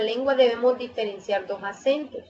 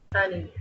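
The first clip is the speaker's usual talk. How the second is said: ánimo said as animo, stress on NI; stress on middle syllable; 4 semitones lower, 5 dB quieter, faster than usual. Shown as a demonstration. Teacher contrasting stress positions, middle syllable stressed. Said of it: "por la posición del acento podemos distinguir".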